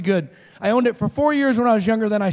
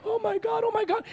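high, softer mock wail of mourners; imitated crying; 13 semitones higher, 5 dB quieter than usual. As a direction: wail in shock like funeral guests. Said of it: "and they're crying".

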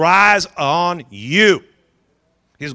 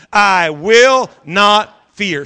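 slow, louder repeat of "I will not fear"; repeating loudly; 4 dB louder, much slower than usual. Shown as a demonstration. Pastor repeating with congregation, louder slow declaration. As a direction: say it loud with the congregation. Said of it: "Say it loud".

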